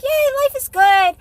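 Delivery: upbeat self-satisfied chirp. Retold or imitated. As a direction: gush about your great day. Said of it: "And you're like".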